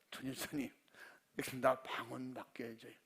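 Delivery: 목소리 낮춰 조심스럽게 부탁; 쑥스러운 듯 작게 졸라; sheepish plea. Retold or imitated. Husband begs deacon for tongues. (전집사님께 방언 받게 해달라고 조르는 남편, 작고 쑥스럽게)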